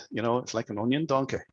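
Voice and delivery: rough mock Scottish accent, Shrek style; a lightly put-on Scottish accent for the joke. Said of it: "my worst Scottish accent ever".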